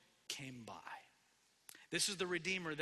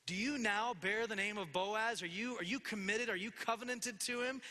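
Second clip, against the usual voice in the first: eager, raised-pitch questioning; hopeful questioning; 3 semitones higher than usual. Acted. Naomi asks whether Ruth is committed, hopeful and eager. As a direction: press for good news, mildly excited. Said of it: "She's waiting, hopefully, for the good news".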